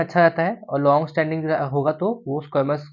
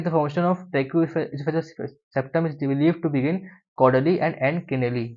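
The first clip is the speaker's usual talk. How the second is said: slow, even reading from the book; textbook read-aloud; much slower than usual. Acted. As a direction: read the passage out slowly for students. Reads textbook passage aloud.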